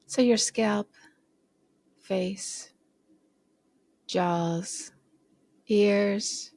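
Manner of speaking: slow, unhurried body scan guidance; measured meditation voice with space between phrases; guided meditation. Shown as a demonstration. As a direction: guide them gently through each body part, leaving long pauses. Leads a body scan exercise.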